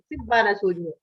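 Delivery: name then "Sugno" in Sicilian; Sicilian dialect. Shown as a demonstration. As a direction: say it as a Sicilian would. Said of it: "Questo lo deve dire in siciliano".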